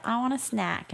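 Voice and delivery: high-pitched mock toddler demand; whining child. Dad imitating his child asking for food, whiny child. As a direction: pipe it up like a small child.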